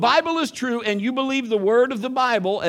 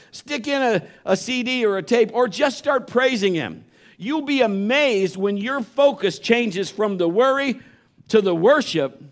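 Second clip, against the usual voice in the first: ordinary talk, nothing marked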